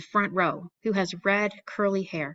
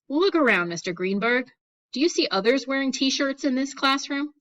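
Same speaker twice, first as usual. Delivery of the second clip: stern scolding; 6 semitones higher than usual. A narrator's reading. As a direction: scold him in front of the class. Stern teacher scolds student.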